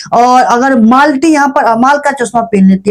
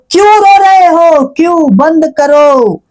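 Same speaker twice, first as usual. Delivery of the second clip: retold scolding; 5 semitones higher, slower than usual. Host scolding contestant, retold.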